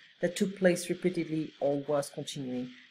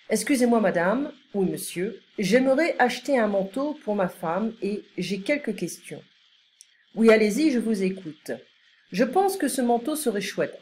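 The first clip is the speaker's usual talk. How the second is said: lively, carefully articulated French read-aloud; model dialogue reading; 3 semitones higher, 3 dB louder than usual. Acted. Customer asks saleswoman about a coat, model dialogue reading. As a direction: read out a polite shop exchange for learners.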